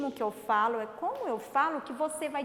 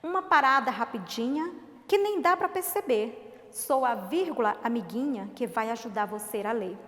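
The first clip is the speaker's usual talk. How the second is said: put-on children's poem read aloud; poem recital; 4 dB louder than usual. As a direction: recite the verses with a measured lilt.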